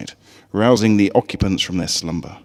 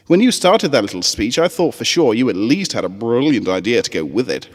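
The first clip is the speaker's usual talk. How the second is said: a doubtful little pony teasing her friend; 3 semitones higher, 4 dB louder than usual. Acted. Scootaloo teases.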